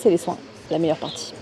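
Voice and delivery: ordinary talk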